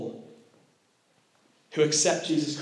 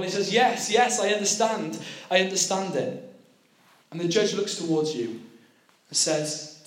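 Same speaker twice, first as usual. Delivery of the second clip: dramatic sermon storytelling; 2 semitones higher than usual. Acted. Preacher to youth, acting out the courtroom with growing urgency. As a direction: tell it like a gripping story, building tension.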